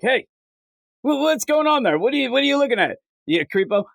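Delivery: mock shocked stranger calling out a creep; outraged bus passenger. Passenger confronts reader.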